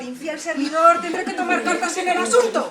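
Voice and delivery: angry rebuke. Acted. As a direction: spit the insult out. Queen scolds mirror louder.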